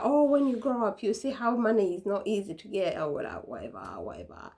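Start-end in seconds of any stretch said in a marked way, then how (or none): 0.0-3.0 mom lecturing. Retold or imitated. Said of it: "she'll be like".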